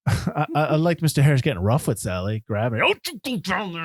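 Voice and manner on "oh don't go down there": high-pitched mock yell; imitated yelling. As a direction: yell a warning, imitating the film character. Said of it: "he's, like, yelling".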